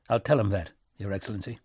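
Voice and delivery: understated bitterness, dropping away at the end; a touch of resentment under courtesy; bitter. Acted. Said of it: "Nicolay sounded bitter".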